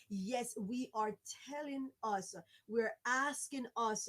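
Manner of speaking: "us" emphasized at the end of each phrase; stress on "us". Real, not acted. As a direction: lean on the word "us" each time. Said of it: "I keep stressing on the us".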